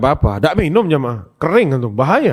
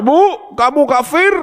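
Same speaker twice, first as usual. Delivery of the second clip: high, drawn-out mock shout at mother; mock yelling; 12 semitones higher, slower than usual. Shown as a demonstration. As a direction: imitate a child yelling accusingly, without full volume. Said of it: "Bukan teriak-teriak". (pura-pura meneriaki ibu, bernada tinggi)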